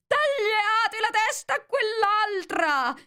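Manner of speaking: high, loud, slow shout; furious queen shouting orders; queen yelling. A narrator's reading. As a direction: scream the order to behead him. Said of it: "di urlare".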